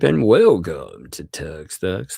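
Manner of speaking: lightly voiced, drawn-out announcer; slow show-host welcome, lightly put on; a hint of ring announcer, words stretched. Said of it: "I like doing my announcer voice".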